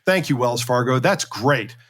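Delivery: dry, understated sarcasm; sarcastic. Real, not acted. Podcaster mock-thanking the bank after its statement, sarcastic. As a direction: thank them with deadpan irony. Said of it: "note the sarcasm".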